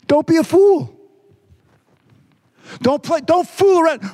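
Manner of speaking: preacher thundering the warning; forceful warning. Real, not acted. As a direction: proclaim it to the whole church. Preacher warns congregation with force.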